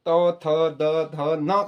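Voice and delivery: तो, थ, द, ध, न sounded one by one off the teeth; dental sound drill. Shown as a demonstration. Teacher reminding pupils how the dentals are pronounced, dental drill. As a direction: sound out तो थ द ध न with tongue touching the teeth. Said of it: "इसी तरह से आपको स का भी".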